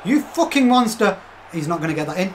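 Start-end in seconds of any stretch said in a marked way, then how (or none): 0.1-1.2 "You fucking monster" slow, higher and louder, "You" punched; excited shout. Real, not acted. Streamer roars praise at his player, higher and louder. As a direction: let the praise burst out.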